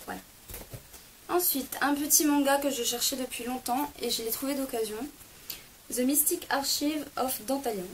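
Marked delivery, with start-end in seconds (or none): 5.9-7.8 a French speaker's shaky English title; bad English accent. Real, not acted. Reading out an English manga title, awkward French-accented English. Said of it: "c'est mon accent pourri anglais".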